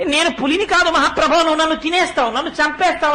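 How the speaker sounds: lightly voiced sheep pleading with the big tiger not to eat it; bleating sheep cry. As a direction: mildly whimper like a frightened sheep. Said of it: "గొర్రె ఎలా ఏడుస్తుందో అలా ఏడుస్తోంది".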